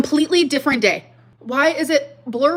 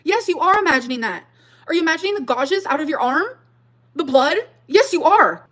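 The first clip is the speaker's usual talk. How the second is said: higher, emphatic sarcastic retort; 4 semitones higher, 4 dB louder than usual. Real, not acted. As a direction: snap back sarcastically. Sarcastic reply to quote.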